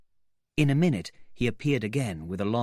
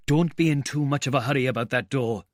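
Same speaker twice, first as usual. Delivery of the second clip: anxious; 4 semitones higher, 4 dB louder than usual. Acted. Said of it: "said the cabman anxiously".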